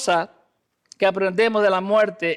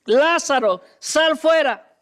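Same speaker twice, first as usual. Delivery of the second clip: powerful call; 5 semitones higher, 3 dB louder, slower than usual. Acted. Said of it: "con voz poderosa".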